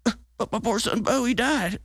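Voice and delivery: put-on high, slow whiny old man; mocking the president's sob story, high and whiny; mocking Biden whine. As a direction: whimper it like a pitiful excuse. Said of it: "his response was like".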